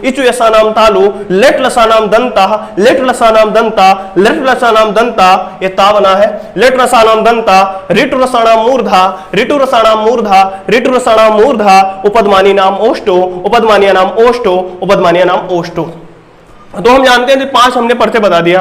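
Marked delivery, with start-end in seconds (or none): 0.0-5.6 measured drill-style Sanskrit recitation; rote recitation. Shown as a demonstration. Teacher reading memory tricks for students, rote recitation. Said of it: "पहले हम एक बार पढ़ लेते हैं पांचों तो". 6.6-15.9 measured drill-style Sanskrit recitation; rote recitation. Shown as a demonstration. Teacher reading memory tricks for students, rote recitation. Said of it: "पहले हम एक बार पढ़ लेते हैं पांचों तो".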